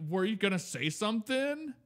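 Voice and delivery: high-pitched put-on woman's voice; mock lady voice. Man mimicking the Starbucks woman, high mock lady voice. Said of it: "Your lady voice sounds not good".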